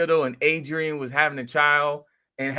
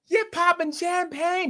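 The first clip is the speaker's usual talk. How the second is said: high slow celebratory mock cheer; excited crowd. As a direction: drawl it out like the chat is celebrating. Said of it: "everybody was like".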